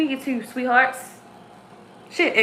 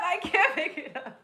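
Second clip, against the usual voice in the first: much softer, to herself; softer repeat; 3 semitones higher, 10 dB quieter than usual. Real, not acted. Second take, muttered softly to herself. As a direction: drop it almost under the breath.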